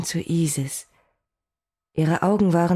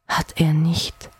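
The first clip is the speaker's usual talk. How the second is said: reassuring; slower than usual. Acted. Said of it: "beruhigte ich sie".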